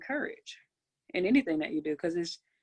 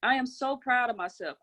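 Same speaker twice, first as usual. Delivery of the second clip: said with belief; 3 semitones higher, 3 dB louder than usual. Shown as a demonstration. Coach leading a call, affirming with belief. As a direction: say it like you truly believe it. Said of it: "Say it with belief".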